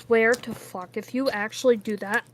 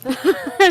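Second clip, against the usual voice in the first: laugh; 6 semitones higher, 5 dB louder than usual. Real, not acted. Laughing at Cool Gamer name.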